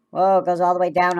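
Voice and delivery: thrilled exclamation; excited whoa. Real, not acted. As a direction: marvel at it sliding down. Excited describing truck dump.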